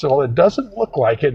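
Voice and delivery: lightly mimicking an annoyed dentist; mildly annoyed dentist. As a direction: start to get a little testy. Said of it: "he's starting to get mad".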